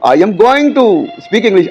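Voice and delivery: drawn-out example sentence, word by word; slow teaching demo. Shown as a demonstration. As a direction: read the example slowly like a teacher. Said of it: "तो इस तरह मैं अंग्रेजी बोलने लगा हूँ". (धीरे-धीरे उदाहरण बोलना)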